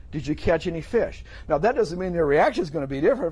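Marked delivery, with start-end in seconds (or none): 0.1-1.2 gentle, caring question; understated tender call; affectionate. Acted. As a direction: ask kindly, with fondness. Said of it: "He's saying this with affection toward them".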